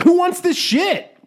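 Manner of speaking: high, slow alien voice; squeaky clueless alien; goofy alien voice. Pretend. Alien voiced landing carelessly.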